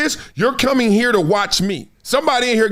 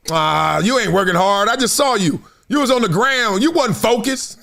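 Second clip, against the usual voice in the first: nagging critic. Retold or imitated. Voicing the nagging fan.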